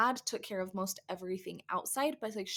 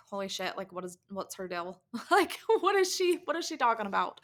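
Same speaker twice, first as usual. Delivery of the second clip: confused husband. Retold or imitated. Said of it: "my husband was like".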